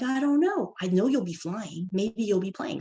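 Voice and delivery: high-pitched I-don't-know, easing down; playful uncertainty. Retold or imitated. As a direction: hedge it for a curious child. Mom unsure, answering child.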